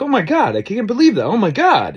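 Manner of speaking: high, imitated giddy squealing; giddy gushing. Cyclists imitated, giddy and gushing after the find. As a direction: gush like you can't believe it.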